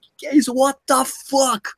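stunned exclamation. Retold or imitated. American's reaction voiced again.

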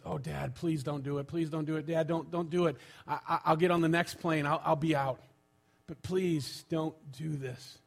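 mild acted pleading, repeating in a rush; understated plea that slows at the end. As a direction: beg lightly, as a retold son. Son begging dad in retold story.

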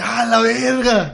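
asombro lento y estirado. Retold or imitated. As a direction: alarga el asombro, maravillado. Asombro al oír la canción. (al oír tocar la canción, asombro lento y estirado)

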